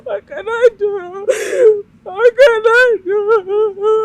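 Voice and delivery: despairing cry. Acted. Mother despairing in tears.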